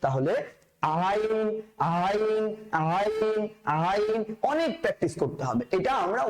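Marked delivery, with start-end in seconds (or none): 1.1-4.2 "আইন" drawn from the middle of the throat; each "আইন" held and made in the throat; mid-throat letter. Shown as a demonstration. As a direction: drill a throaty Arabic "আইন". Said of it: "আইন যেখান থেকে উচ্চারিত হচ্ছে".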